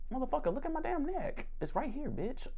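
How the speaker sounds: high, squeezed mock exasperation; exasperated retort. Acts exasperated reply to rescuers.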